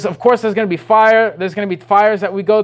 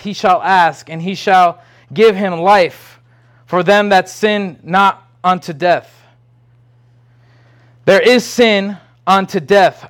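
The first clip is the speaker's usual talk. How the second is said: scripture reading. Acted. Preacher reads John's letter aloud to the congregation, measured and firm. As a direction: read the verses out with weight.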